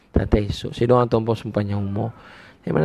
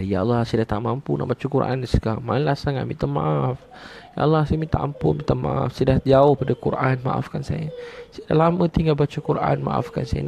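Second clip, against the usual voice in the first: mildly pleading, pitch lifted; pleading prayer; 4 semitones higher than usual. Shown as a demonstration. Preacher models confessing to Allah, pleading. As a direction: plead for forgiveness in a raised voice.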